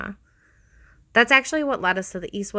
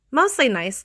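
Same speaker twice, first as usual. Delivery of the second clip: mischievous; 6 semitones higher, 3 dB louder than usual. A narrator's reading. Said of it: "Thea said with a mischievous smile".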